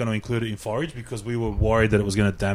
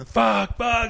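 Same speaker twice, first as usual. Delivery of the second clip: high mock outburst of swearing; mimicked swearing chef; 12 semitones higher than usual. Mimicking the chef's swearing outburst, hammed-up. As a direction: imitate her swearing, pitched up. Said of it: "and start swearing, like, really loudly".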